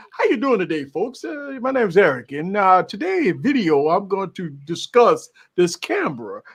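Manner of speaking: lightly voiced polished video intro; a hint of careful, proper host delivery; proper-talking presenter. Showing how he opens a video, proper-talking presenter. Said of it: "We can't say".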